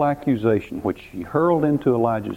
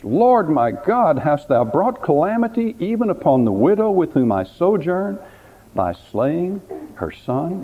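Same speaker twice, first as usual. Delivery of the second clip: cry of anguish; 6 semitones higher than usual. Acted. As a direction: call out to God in anguish. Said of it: "He cried out in great anguish".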